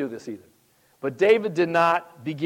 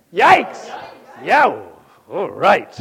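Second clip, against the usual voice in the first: loud yell; 9 dB louder, slower than usual. Shown as a demonstration. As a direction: yell it out so Carol hears it. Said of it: "real loud".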